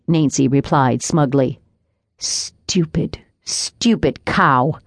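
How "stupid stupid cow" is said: whispered, very slow lament. A narrator's reading. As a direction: breathe it out in despair.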